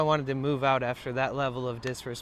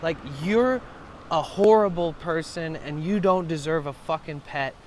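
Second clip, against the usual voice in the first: loud angry rant speeding up; retold furious rant; 4 semitones higher, 4 dB louder than usual. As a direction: tear into her, words tumbling faster. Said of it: "I was like".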